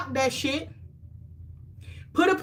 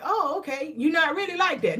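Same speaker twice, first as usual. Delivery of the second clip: a light, higher imitation of surprised people, with a chuckle; mock surprise; 5 semitones higher than usual. Clients surprised she still checks in, mildly mocked. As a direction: play the shocked client lightly, half laughing. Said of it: "people be shocked".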